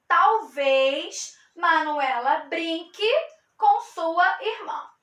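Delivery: slow, clear model reading; slow model sentence. Shown as a demonstration. Teacher reading a model sentence slowly to students. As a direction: read it slowly for the class. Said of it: "Então".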